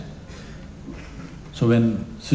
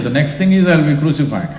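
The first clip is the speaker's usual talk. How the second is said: laughing joke; 4 dB louder, faster than usual. Real, not acted. Joking about being called messiah.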